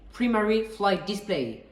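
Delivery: careful, slow English accent on Primary Flight Display. Shown as a demonstration. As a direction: sound out Primary Flight Display slowly, as an English pilot would. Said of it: "Notez mon accent anglais". (accent anglais appliqué, lent)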